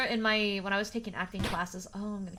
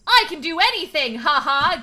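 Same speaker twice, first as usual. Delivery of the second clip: loud, higher-pitched fake bravado; mock confidence; 5 semitones higher, 9 dB louder than usual. Streamer gaslighting herself into believing, mock confident. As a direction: hype yourself up, over-the-top and loud. Voices own mock pep talk.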